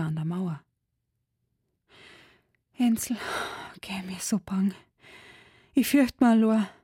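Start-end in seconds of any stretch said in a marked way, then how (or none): 2.8-6.7 hushed then rising in fear; sick girl calling out afraid in the dark; frightened call. A narrator's reading. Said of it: "rief sie". (ängstlich rufen)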